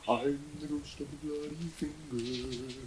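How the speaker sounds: slow, eerie ghostly moan; spooky ghost voice. Acted. Ghost calling from the bathroom to the cyclist, eerie moan. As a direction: draw it out like a haunting.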